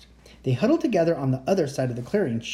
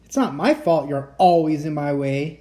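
yelling; 5 dB louder than usual. Acted. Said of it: "yelled the first monster".

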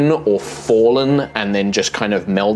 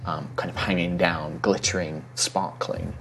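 story narration; 4 dB quieter than usual. A narrator's reading. GM scene setting.

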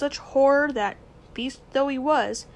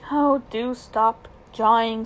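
louder, slow, exasperated; impatient boy; 6 dB louder, slower than usual. Acted. Boy silencing his uncle's rambling, slow. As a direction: cut the old man off, fed up.

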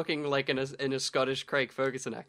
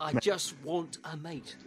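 slow, softer Donna Noble voice; Donna impression; 8 dB quieter, slower than usual. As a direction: drawl it out like Donna. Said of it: "that was a really good impression".

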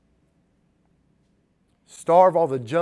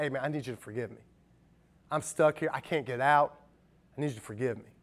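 soft, quick, pleading murmur, much softer; humble plea; 3 semitones lower, 5 dB quieter, faster than usual. Retold or imitated. A person begging a friend for forgiveness, speaking softly. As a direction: ask for forgiveness under your breath.

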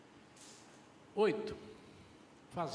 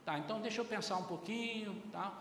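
calm father; 5 dB quieter than usual. Shown as a demonstration. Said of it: "aprenda a dizer assim".

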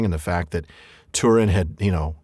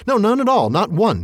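hasty Bilbo; 9 semitones higher than usual. Acted. Bilbo hastily taking back his answer to the troll, a high hurried denial. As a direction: hurriedly cover the mistake. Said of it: "he said immediately afterwards".

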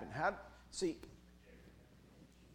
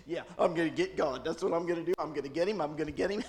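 mock scheming Satan; 3 semitones higher, 7 dB louder than usual. Satan plotting.

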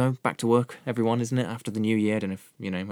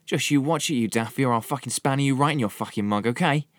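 higher-pitched, hammed-up Cockney threat; terrible Cockney accent; 5 semitones higher, 4 dB louder than usual. Reviewer mimicking a gangster film's threat, in terrible Cockney. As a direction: put on a bad Cockney hard-man accent. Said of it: "the worst Cockney accent you've heard".

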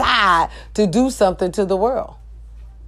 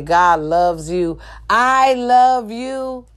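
tender slow blessing; much slower than usual. Real, not acted.

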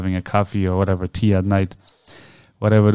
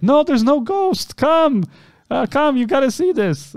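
high-pitched, urging call; acted insistent summons. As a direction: coax a scared person from afar, voice raised high. Father insists, calling her over.

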